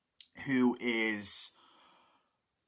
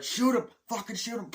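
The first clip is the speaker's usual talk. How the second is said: high-pitched mock frenzy; re-enacted frenzied yell; acted frantic order; 12 semitones higher, 4 dB louder than usual. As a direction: urge the shot like a crazed soldier. Acts out soldier's frenzy.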